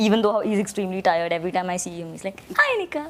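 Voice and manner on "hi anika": high-pitched, sweet imitated hello; imitating sweet greeting. Imitating a tired co-star greeting Anika, sweet and high. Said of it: "with that tone of voice".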